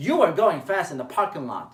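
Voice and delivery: blaming, pointed accusation; accusing you statement. Shown as a demonstration. Coach shows the wrong accusing way, blaming. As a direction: jab the you at them. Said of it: "It's not like".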